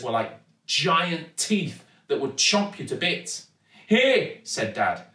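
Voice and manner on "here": high, loud call for attention; urgent call. A narrator's reading. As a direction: call out from a perilous spot. Dangling dad calls to daughter.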